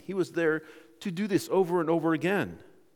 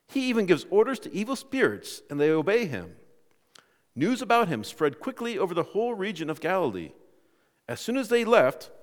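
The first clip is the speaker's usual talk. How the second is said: measured, emphatic Bible reading; scripture reading. Acted. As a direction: read the passage out to a congregation. Reads scripture aloud to congregation.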